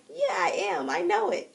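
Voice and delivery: high, loud, delighted self-assurance; gleeful, emphatic agreement with yourself; feeling it. Acted. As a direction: burst out proudly, totally convinced. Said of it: "you feel it. You just like".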